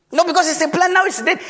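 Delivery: high, whiny Jonah defending his plant; whining Jonah. Acted. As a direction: complain like a sulking child.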